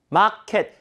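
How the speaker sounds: 마켓 with aspirated k and full 에. Shown as a demonstration. Teacher showing the everyday habit, 마켓 with full 에. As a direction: say 마켓 as a Korean loanword. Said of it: "평상시 우리가 하던 발음".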